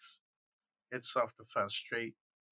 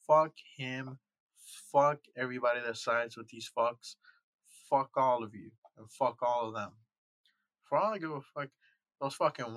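loud furious swearing, falling at each end; angry cursing; 6 dB louder than usual. Real, not acted. Ranting at viewers and the victims, loud furious cursing. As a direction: spit each curse out loud and hard.

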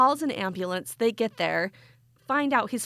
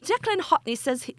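slightly higher, hammed Irish accent; put-on Irish accent; 5 semitones higher than usual. Host reading a news story from Ireland, put-on Irish accent. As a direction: slip into mock Irish. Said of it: "It's full Irish".

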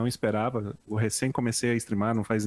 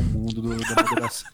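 laughing; 3 dB louder than usual. Real, not acted. Joking about a plan to rule.

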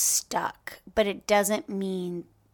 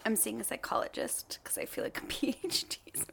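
whispering; 6 dB quieter, faster than usual. Real, not acted. Joking aside, whispered.

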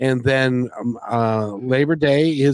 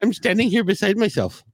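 put-on Indian accent; 10 semitones higher, faster than usual. Continues the Indian accent bit.

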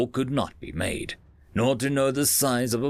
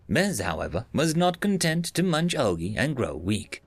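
put-on Bez, old speech synthesizer. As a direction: speak like a dated computer voice. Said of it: "I'll let my colleague Bez thirteenth Generation tell the rest".

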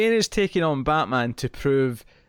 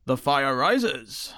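very slow, drawn-out Bane line; much slower than usual. Pretend. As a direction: intone it slowly like Bane. Quoting Bane slowly.

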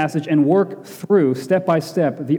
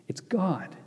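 hushed whisper; 2 semitones higher, 12 dB quieter than usual. Real, not acted. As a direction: whisper it, breath only, no voice. Revelation whispered for effect.

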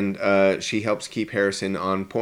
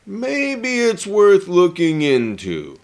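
James Earl Jones impression; 5 semitones higher, 4 dB louder, slower than usual. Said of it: "there's James Earl Jones going".

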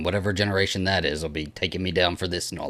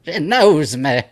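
higher, louder, put-on voice; Ellen Burstyn impression; 6 semitones higher, 5 dB louder, much slower than usual. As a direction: repeat it in an eerie put-on voice. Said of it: "Ellen Burstyn goes".

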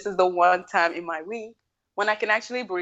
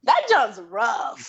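slow drawl; 2 semitones higher, much slower than usual. Acted. Drawn-out punchline.

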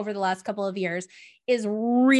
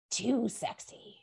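slow, soft, hushed; mock-scandalized soft slow warning; 9 dB quieter, slower than usual. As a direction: drop into a coy hush. Mocking society's warning.

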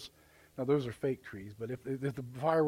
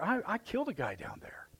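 stammered, high whisper; hushed confession; 6 semitones higher, 7 dB quieter than usual. Retold or imitated. Preacher acting Moses confessing to God, hushed and nervous. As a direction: whisper it like a guilty secret.

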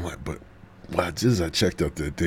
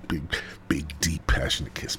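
whispered savoring; 3 semitones lower, 6 dB quieter than usual. Real, not acted. Whispered build to the kiss.

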